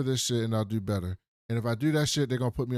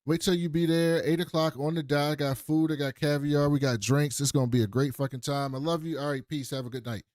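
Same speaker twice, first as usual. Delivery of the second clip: mock gushing hostess; 3 semitones higher than usual. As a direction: play a fake, overly sweet hostess. Mocking fancy hosts greeting everyone.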